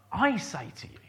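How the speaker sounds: whispered, emphatic "I"; hushed whisper. Acted. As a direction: whisper it, leaning on I. Preacher stressing Jesus' own words.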